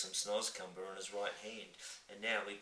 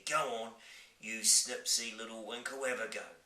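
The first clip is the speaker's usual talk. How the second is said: giant voice; 2 semitones higher, 4 dB louder than usual. Acted. Giant urges.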